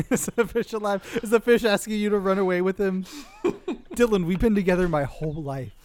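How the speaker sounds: a hint of a pleading fish. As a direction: fish begging him to run away. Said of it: "you're the voice of the fish".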